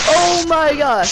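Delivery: high, loud, gleeful yelling; excited shouting. Real, not acted. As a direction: gloat at the top of your voice. Gloating, excited.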